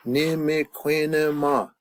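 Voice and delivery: Nimequenema drawn out slowly, every syllable stretched; slow pronunciation model. Shown as a demonstration. Models the word for the class.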